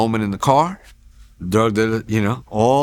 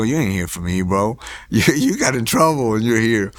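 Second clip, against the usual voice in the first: laughing in disbelief as retold; retold amused brush-off with a laugh; retold scoffing laugh. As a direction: laugh it off, mocking the offer. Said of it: "so I start laughing".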